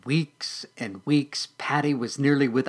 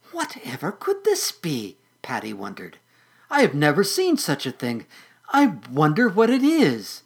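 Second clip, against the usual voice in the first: put-on curious caterpillar girl; 2 semitones higher, 4 dB louder than usual. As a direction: wonder aloud like a small eager bug. Caterpillar Patty speaks.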